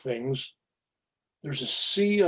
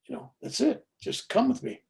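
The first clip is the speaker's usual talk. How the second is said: higher, gently luring angel; coaxing angel voice; 10 semitones higher, 3 dB quieter than usual. Retold or imitated. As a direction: beckon him to come along. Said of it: "the softest, most feminine voice".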